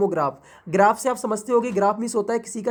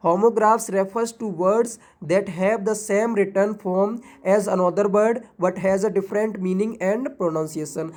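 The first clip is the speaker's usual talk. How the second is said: slow definition reading; much slower than usual. Shown as a demonstration. Teacher dictating the homograph definition to students, very slow. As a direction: read the definition very slowly, as if dictating. Reads textbook definition aloud.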